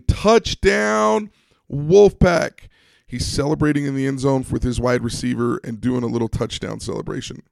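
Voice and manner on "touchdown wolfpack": high, loud celebratory shout; retold yell. Quarterback running down the field after his touchdown, yelling. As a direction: belt it out like scoring a touchdown.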